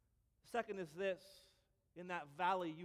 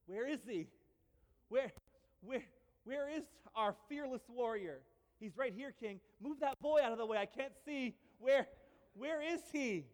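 eager king; 4 semitones higher, 5 dB louder than usual. Retold or imitated. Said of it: "I could see him".

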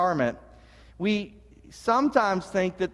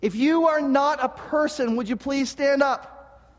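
mock junior high teacher; 6 semitones higher, slower than usual. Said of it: "Little junior high moment there again".

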